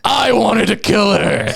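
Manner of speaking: slow, hammy stage yell; mock-anguished dramatic line; imitated scream. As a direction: overact it, stretching every word. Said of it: "so Momo's screaming".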